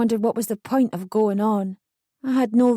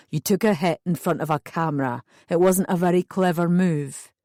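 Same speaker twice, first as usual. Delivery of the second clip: a hint of a lower, stern officer; lightly voiced stern policeman; 3 semitones lower than usual. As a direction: scold her lightly as the policeman.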